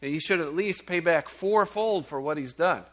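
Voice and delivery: playing David outraged at the rich man, building up; righteous indignation. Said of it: "in his righteous indignation".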